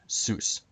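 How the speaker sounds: ZEUS here is SOOS, the stressed syllable; stressed syllable shown. Shown as a demonstration. Presenter pointing out the accented syllable, stressed syllable shown. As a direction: say Zeus as a slow isolated SOOS. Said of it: "with the accent on".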